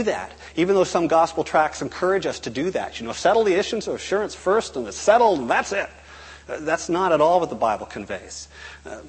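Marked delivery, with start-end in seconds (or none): 3.1-5.9 higher-pitched, emphatic wrap-up; mock certainty. Mimicking gospel tracts that settle assurance, glib. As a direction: lightly mimic a glib, case-closed pitch.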